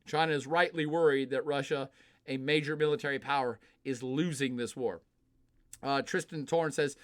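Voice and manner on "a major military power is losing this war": ordinary delivery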